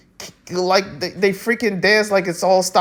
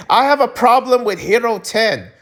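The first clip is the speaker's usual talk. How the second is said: bold declaration; 5 semitones higher than usual. Pretend. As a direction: proclaim "have" like a confession to the world. Admits problem quietly then loudly.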